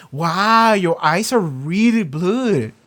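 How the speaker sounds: drawn-out fake amazement; playful Stormfront. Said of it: "she was like".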